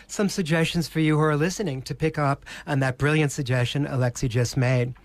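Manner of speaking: ordinary talk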